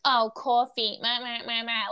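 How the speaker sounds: lightly exaggerated New York Italian-American accent; a hint of hammed-up New York Italian-American; mock New York accent. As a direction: mimic a ridiculous movie New York accent, mockingly. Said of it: "her accent was ridiculous".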